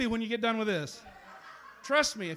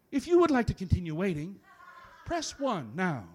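phone menu voice. Acted. Repeated menu prompt, slower.

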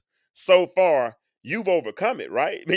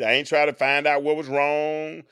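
ordinary talk

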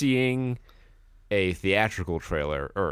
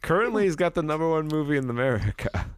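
trailer announcer; 7 semitones higher, faster than usual. Pretend. Movie trailer voice parody.

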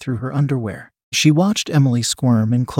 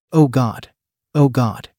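moaning; slower than usual. A narrator's reading. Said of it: "Emily moaned".

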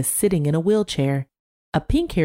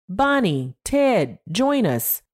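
calling out; 6 semitones higher, slower than usual. A narrator's reading. Calling friends over in a crowd.

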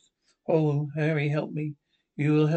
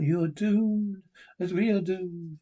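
ghostly voice; 4 semitones higher than usual. Acted. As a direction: intone the curse like a lost soul. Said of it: "Voice went".

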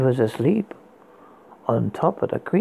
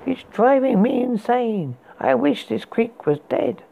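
exasperated; 6 semitones higher than usual. Acted. Exasperated complaint.

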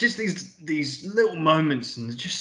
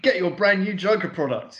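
higher-pitched TV salesman call; Joker advert pitch; 6 semitones higher than usual. Retold or imitated. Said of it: "like, advertising it".

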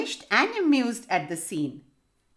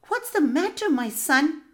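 bright, high jester voice; court jester; 7 semitones higher than usual. Acted. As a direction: sing out the question lightly. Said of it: "asked the jester".

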